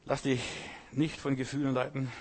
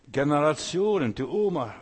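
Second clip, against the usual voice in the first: loud emphasis; 3 semitones higher, 8 dB louder than usual. Real, not acted. Preacher drives home point.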